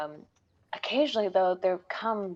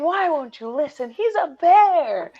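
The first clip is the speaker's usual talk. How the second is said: high, louder desperate mock yell; retold screaming; 9 semitones higher, 8 dB louder than usual. Adventurers dragged out, pleading loudly with high mock yelling. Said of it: "these adventurers were screaming".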